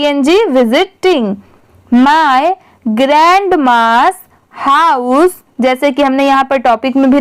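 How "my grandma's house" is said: slow classroom reading. Shown as a demonstration. Reads English line aloud.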